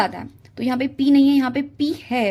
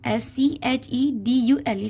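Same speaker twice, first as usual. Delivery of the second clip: slow spelling out; much slower than usual. Shown as a demonstration. Teacher to SSC students, slowly spelling out शेड्यूल. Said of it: "तो सही spelling क्या होगी?".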